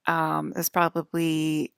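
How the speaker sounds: novice's go at an Irish accent; attempted Irish accent. Shown as a demonstration. Vlogger having a first go at being Irish, attempted Irish accent. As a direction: try out a tentative Irish lilt. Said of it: "my first go trying to be Irish".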